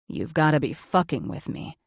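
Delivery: man's voice. Acted. Spencer's lines in story.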